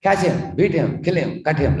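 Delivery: a lightly acted rough parrot barking orders; mock parrot yelling. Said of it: "parrot was yelling and shouting".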